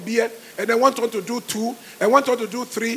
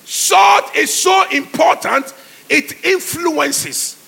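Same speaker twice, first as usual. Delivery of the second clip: emphatic preaching; 4 semitones higher, 5 dB louder, slower than usual. Real, not acted. Preacher stressing key point.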